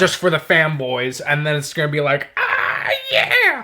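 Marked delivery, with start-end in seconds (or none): 2.4-3.6 high cheering shout; fanboy cheer. Retold or imitated. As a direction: whoop like a thrilled fan.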